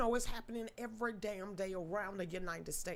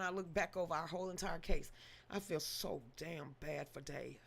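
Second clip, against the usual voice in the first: quiet real regret for Dave; sad; 6 semitones lower, 8 dB quieter than usual. Real, not acted. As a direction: let the sorrow weigh it down. Sad reflection on the case.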